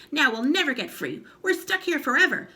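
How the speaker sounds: high, loud despairing scream. Acted. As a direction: wail that it's hopeless. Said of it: "screamed Missus Twit".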